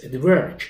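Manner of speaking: At work said as one joined word, "ed-verk"; fuse the two words together; linked as one word. Shown as a demonstration. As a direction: native linking demo. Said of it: "چسبیده به همه".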